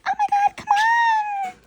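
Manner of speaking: put-on high whiny girlfriend voice; girlfriend pleading. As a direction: beg like an impatient girlfriend. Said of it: "she's like".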